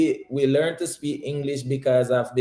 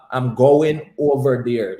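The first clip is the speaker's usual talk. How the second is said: careful proper phrasing; 5 dB louder, slower than usual. Shown as a demonstration. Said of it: "I don't want to say it like that".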